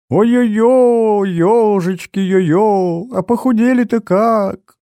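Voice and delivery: high, slow, doting mother's wail of delight; fussing mother. Acted. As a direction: gush over the kids like a tearful mum. Mother greets children tearfully. (мать причитает высоким голосом, радуясь детям)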